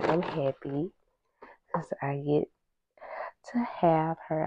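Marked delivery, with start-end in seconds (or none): 1.7-4.5 whisper. Real, not acted. Quiet happy aside.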